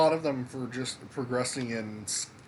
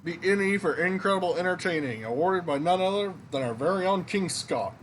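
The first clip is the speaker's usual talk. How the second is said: high-pitched, louder trophy reveal; impressed game character; 6 semitones higher, 4 dB louder than usual. Acted. Inn worker recognizes the entertainer's trophy, high impressed character voice. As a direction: play up the grand award.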